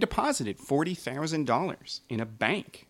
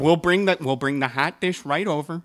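put-on Minnesota accent. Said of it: "do the rest of the episode with that accent".

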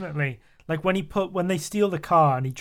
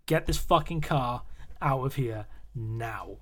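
building tension; 3 semitones lower, 5 dB quieter, slower than usual. Retold or imitated. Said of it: "like, building tension as well".

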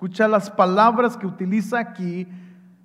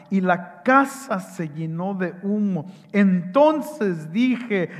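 scripture reading; 2 semitones lower than usual. A narrator's reading. Reads Isaiah passage aloud.

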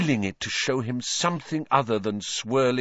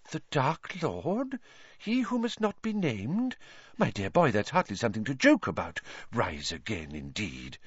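startled seer voice; 2 semitones higher, 4 dB quieter than usual. Acted. Trelawney startled dismissive.

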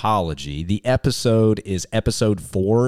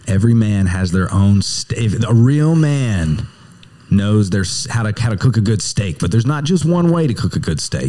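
hammed-up cowboy Western accent, louder; bad Western accent; 4 dB louder than usual. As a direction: present the show like a hokey Western cowboy. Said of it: "I definitely put on the accent".

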